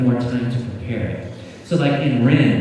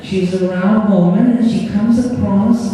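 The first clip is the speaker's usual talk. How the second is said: higher, louder New York character voice; 8 semitones higher, 4 dB louder than usual. Acted. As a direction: play the tough guy from back East. Answers in the character's voice.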